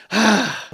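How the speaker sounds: sharp exasperated sigh; audible sigh of disbelief. Real, not acted. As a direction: huff out a frustrated breath. Ranting at an absurd claim.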